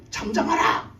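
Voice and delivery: imitated command to the storm; stern rebuke. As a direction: rebuke the waves, acting it out. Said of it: "그 풍랑을 꾸짖으세요". (풍랑을 꾸짖는 예수님 흉내)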